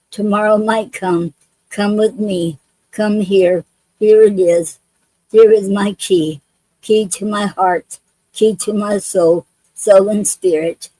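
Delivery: gentle rhythmic poem recital; poem reading. Acted. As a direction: read each line like a chain of vows, pausing between. Reads her own love poem.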